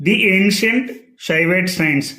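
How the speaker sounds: "the" said as "dee" before ancient; careful "dee ancient" teaching demo. Shown as a demonstration. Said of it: "the అని ఇక్కడ పలుకుతున్నామంటే".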